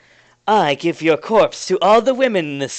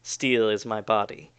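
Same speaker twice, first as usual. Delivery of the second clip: lower, softer, intoned chant; solemn incantation; 5 semitones lower, 4 dB quieter than usual. Acted. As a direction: recite it like a secret power spell. NPC chants activation phrase.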